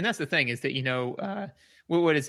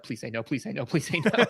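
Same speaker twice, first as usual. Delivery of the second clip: retold anxious pleading. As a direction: replay your nervous hoping, half to yourself. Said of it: "I was, like, really afraid".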